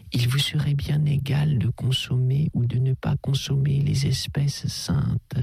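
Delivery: a hint of a patient priest; persuasive priest. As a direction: coax him gently as the abbé. Abbé reasons with Durtal.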